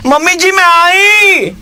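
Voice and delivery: high, slow shouted bride voice; man doing a woman's voice. Retold or imitated. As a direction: call out shyly like a new bride. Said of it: "तो वो चिल्लाए". (शर्माती दुल्हन की ऊँची पुकार)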